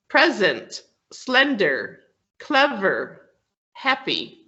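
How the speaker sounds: "present, slender, clever, happy", each with a strong first syllable and falling; stress on first syllable. Shown as a demonstration. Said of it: "uppercase for the, the syllable that is emphasized".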